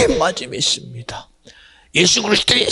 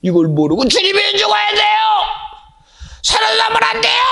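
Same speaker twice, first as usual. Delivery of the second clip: insistent outcry. Acted. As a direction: shout it as a desperate insistence. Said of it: "이렇게 주장했던 베드로".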